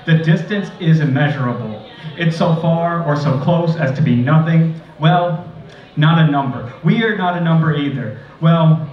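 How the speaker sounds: measured, even poem reading; poetry reading. Acted. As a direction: read it like a prose poem. Reads a prose poem.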